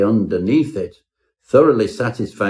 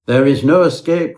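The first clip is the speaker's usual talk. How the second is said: higher, louder panicked wail of doom; desperate cry; 5 semitones higher, 4 dB louder than usual. Acted. Turt cries to the narrator that nobody escapes, desperate. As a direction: cry it out like a hunted man. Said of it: "cried Turt".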